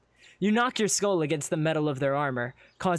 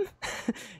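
soft, breathy little titter; nervous laugh; 8 semitones higher, 7 dB quieter than usual. Acted. Friend uneasy before the guard, nervous titter. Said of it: "She laughs nervously".

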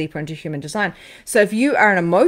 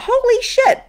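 shocked exclamation; 6 dB louder, slower than usual. Retold or imitated. Imagining seeing a solid spirit.

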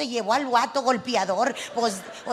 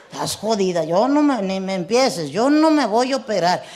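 mock angry refusal; 4 semitones lower, 6 dB louder than usual. Husband refuses loudly.

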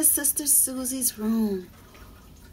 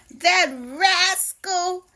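happily; 4 semitones higher, 3 dB louder than usual. Acted. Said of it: "she said happily".

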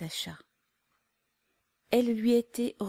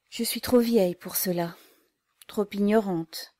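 sadly; 5 dB louder than usual. Acted. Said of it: "Elle fit tristement".

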